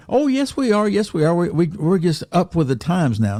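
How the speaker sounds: high, indignant mock protest. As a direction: squeak out a defensive denial. Mocking the denomination's reply.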